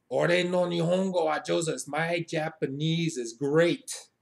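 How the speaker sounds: emphatic mock pride, slowing down; boastful reply. Shown as a demonstration. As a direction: proclaim it with swagger, stretching the last words.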